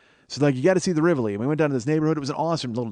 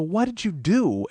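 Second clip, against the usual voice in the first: accusing question; 7 semitones higher, slower than usual. Retold or imitated. Accusing friend in retold quarrel.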